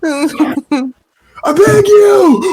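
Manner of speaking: high, loud, pleading rich guy shout; pompous rich guy voice. Pretend. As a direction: whine like a spoiled rich guy begging. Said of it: "with, like, a pompous rich guy voice".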